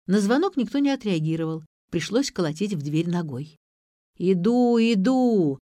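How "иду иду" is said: put-on higher, drawn-out old-crone call; creaky grumble of an old woman; groaning old woman. A narrator's reading. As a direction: grunt it out from behind a door. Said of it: "закряхтели внутри".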